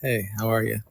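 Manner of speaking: flat, unexcited greeting; monotone voice. Real, not acted. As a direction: say it with no energy. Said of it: "you hit me with your monotone voice".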